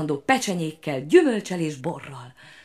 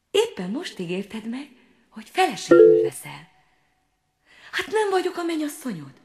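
hurt little frog, reproachful; 7 semitones higher than usual. A narrator's reading.

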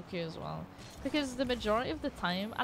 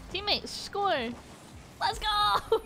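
real hype shout; excited cheer; 10 semitones higher, much slower than usual. Real, not acted. Cheering a goal.

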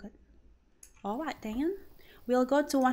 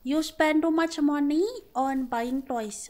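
louder, higher whiny wife complaining we are poor; mock poor wife; 3 semitones higher, 4 dB louder than usual. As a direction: ham up a broke wife begging her husband for money. Wife scolding husband bit.

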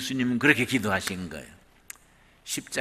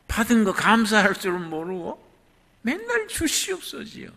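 mocking; 9 semitones higher, 5 dB louder than usual. Real, not acted. Preacher mocking ingratitude.

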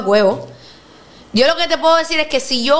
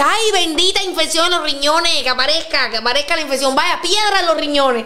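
mock relief; 2 semitones higher than usual. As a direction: bless the infection jokingly. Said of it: "yo dije". (alivio burlón)

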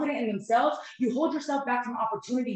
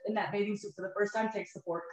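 choked up; 3 semitones lower, 7 dB quieter than usual. Real, not acted. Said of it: "I've been emotional right now".

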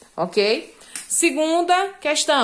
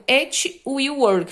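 slow dictation; much slower than usual. Shown as a demonstration. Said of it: "teacher dictating example sentence".

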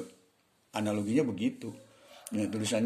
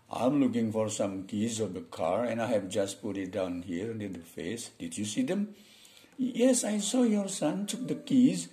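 boss and driver practice dialogue; slower than usual. Acted. Teacher acts out boss asking driver about keys, slow two-role demo. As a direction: read both roles slowly, pitching the answer up.

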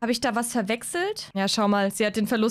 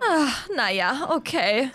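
Hazel voiced; slower than usual. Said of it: "Hazel zu spielen ist so anstrengend".

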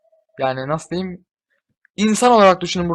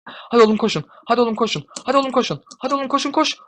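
higher, cheering "Hadi oğlum koşun"; horse race yelling; 7 semitones higher, faster than usual. Real, not acted. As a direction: cheer them on like a jockey. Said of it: "at yarışı gibi bağırdım". (at yarışı gibi bağırarak)

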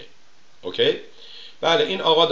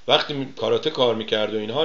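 ordinary talk

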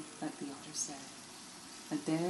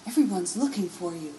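surprised question; 5 semitones higher, 6 dB louder than usual. Acted. Garnet surprised.

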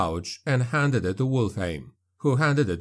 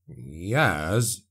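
reluctant; 4 semitones lower than usual. A narrator's reading. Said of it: "Drumnok answered reluctantly".

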